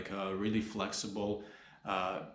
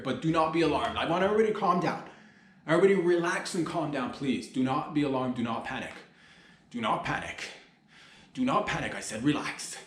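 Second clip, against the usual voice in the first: higher, louder, urgent calm-down plea; hammed-up panic while telling everyone to relax; urging a crowd not to panic; mock calm-down plea; 3 semitones higher, 3 dB louder than usual. Mock public calm-down announcement.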